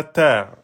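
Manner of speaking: "ta" held over two beats; long vowel. Shown as a demonstration. Teacher showing the prolongation, long "ta". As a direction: stretch "ta" with a lengthened vowel. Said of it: "on est passé en deux temps".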